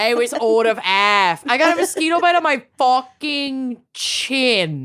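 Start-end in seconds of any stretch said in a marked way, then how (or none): 1.5-4.8 laughing through the words. Real, not acted. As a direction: giggle as you say it. Complaint repeated, second time laughing.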